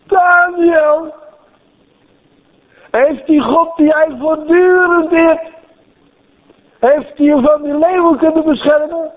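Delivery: the king shouts to Daniel at dawn; anxious king calling. Retold or imitated. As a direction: cry out to the den, hoping for an answer. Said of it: "Kun je het horen in zijn stem?".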